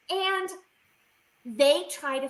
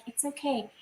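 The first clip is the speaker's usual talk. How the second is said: cooing; 2 semitones higher, 8 dB quieter than usual. Retold or imitated. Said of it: "cooing to me like a baby".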